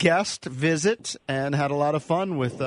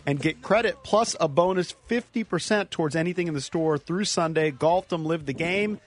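ad read. Acted. Host reads sponsor ad.

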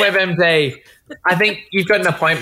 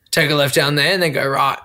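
lightly lowered bloke giving directions; mock-manly, a little deeper; put-on masculine voice; 5 semitones lower than usual. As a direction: play it matter-of-fact macho. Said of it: "That was the voice I did".

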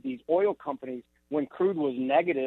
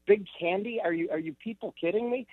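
higher, disbelieving questions; incredulous; 4 semitones higher than usual. Real, not acted. Guest scoffing at lunacy of blaming big candy, incredulous. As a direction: throw it back in disbelief.

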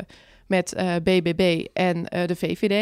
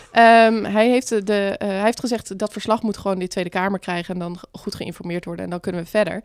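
dry throat from chocolates; talking through a dry throat. Real, not acted. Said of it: "Nu krijg ik dus een droge keel".

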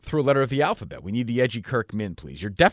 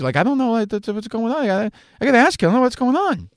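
high nervous nervous-guy voice, getting higher; mock flustered Rich Keefe; 9 semitones higher, 4 dB louder than usual. Host imitates Rich Keefe in a porn scene, high flustered voice. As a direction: play a bashful actor squirming at the scene. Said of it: "He's like".

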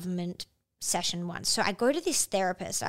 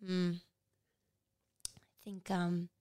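hushed unvoiced whisper, much softer, sinking low on disturbed; therapist's whisper; 3 semitones lower, 10 dB quieter than usual. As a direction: deliver it like a grave diagnosis in a whisper. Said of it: "looks at me over his glasses and goes".

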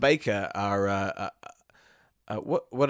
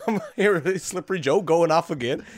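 laughing; 5 semitones higher, 3 dB louder than usual. Acted. Pizza henchman bursts in laughing.

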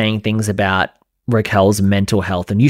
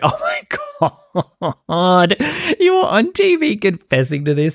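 squealing high mock gasp of disbelief; hammed-up outrage, much higher; mock shock; 10 semitones higher than usual. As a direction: shriek it way up like a scandalised fan.

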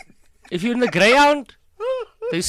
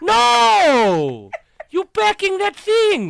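insistent shout; 12 semitones higher, 4 dB louder, much slower than usual. Retold or imitated. Mother insists, son must take.

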